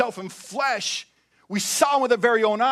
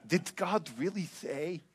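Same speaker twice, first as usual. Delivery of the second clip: snake voice; 3 semitones lower, 10 dB quieter than usual. Acted. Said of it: "He probably says it with a lisp 'cause he's a snake".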